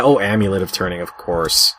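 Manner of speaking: ordinary talk, nothing marked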